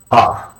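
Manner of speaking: QAF with the K made at the back of the throat; deep K. Shown as a demonstration. Teacher showing learners the letter, QAF with deep K. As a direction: pull the Q of QAF far back. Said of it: "a deep K sound".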